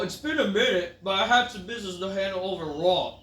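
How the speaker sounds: lightly voiced wrestler promo; quoting him with a smug edge; mock Orton promo. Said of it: "you know".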